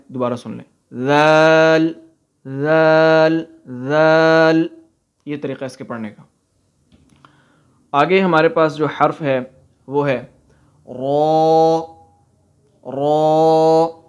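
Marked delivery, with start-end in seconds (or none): 0.9-4.7 ذال said softly, no buzzing z sound; soft zaal. Shown as a demonstration. Teacher to pupils, ذال said soft and long. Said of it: "اس کو بھی نرمی سے پڑھنا ہے". 10.9-14.0 را said full and heavy, tongue behind the teeth. Shown as a demonstration. Teacher showing pupils, را said heavy. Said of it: "اس کو موٹا کر کے پڑھنا ہے".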